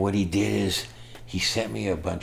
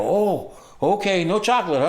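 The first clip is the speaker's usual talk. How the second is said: high, loud mock-sheepish backing off; sheepish retreat; 11 semitones higher, 5 dB louder than usual. Caught man tells the cop never mind, sheepishly. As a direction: back off sheepishly with a laugh. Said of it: "And I go".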